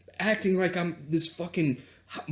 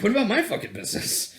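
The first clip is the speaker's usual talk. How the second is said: indignant rant; faster than usual. Retold or imitated. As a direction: rattle off the grievance, fed up. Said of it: "I'm like".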